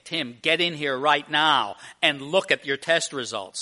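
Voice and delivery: firm, emphatic doctor's order; urgent summons. Acted. Doctor summoning a patient to see test results, urgent. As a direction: press each phrase as life and death. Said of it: "The other is an urgency".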